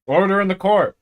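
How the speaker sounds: stern judge. Acted. Judge calls the court to order.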